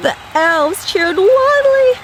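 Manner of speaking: excited narration. A narrator's reading. Narration swept up in cheering.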